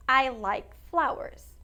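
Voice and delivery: slow, clear teacher's example; slow, deliberate classroom demo; slow model sentence. Shown as a demonstration. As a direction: lay the English out word by word. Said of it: "eu vou dizer".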